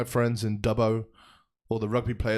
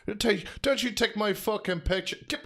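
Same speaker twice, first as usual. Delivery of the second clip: mock anger; 8 semitones higher than usual. Mock angry demand.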